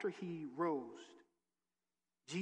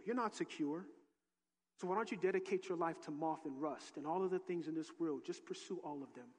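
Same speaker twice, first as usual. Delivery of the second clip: hushed tempter; 2 semitones lower, 5 dB quieter than usual. Pretend. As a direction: murmur it like a tempter. Voicing Satan's whisper.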